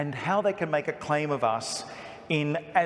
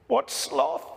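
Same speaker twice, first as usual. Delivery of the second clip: put-on child's question; 12 semitones higher than usual. Child friend asks puzzled.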